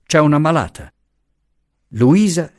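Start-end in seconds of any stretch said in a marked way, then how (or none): 0.0-0.9 raised high, pressing the point; urgent exclaim. A narrator's reading. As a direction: insist quickly, pitch up. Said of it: "esclamò Franco".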